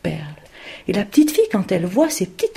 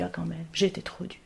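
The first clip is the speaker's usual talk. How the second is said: voiceless whisper of remorse; whispered regret; 3 semitones lower, 9 dB quieter than usual. Acted. Mother regretting her harshness, whispered. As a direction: confess it softly to yourself. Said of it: "Elle se dit".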